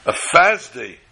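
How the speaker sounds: stunned echo, falling flat; shocked disbelief. Retold or imitated. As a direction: repeat it as if the floor gave way. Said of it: "The man was shattered".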